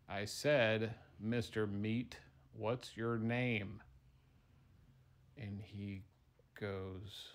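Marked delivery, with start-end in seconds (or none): 0.1-3.8 slow insistent repeat. Acted. Fry repeats question to dumb meatball.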